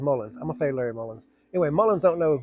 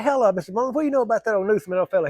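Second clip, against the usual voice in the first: pitched-up innocent question; mock-polite baiting; 7 semitones higher, faster than usual. Narrator baits the candidate, mock-innocent polite voice. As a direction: play dumb sweetly.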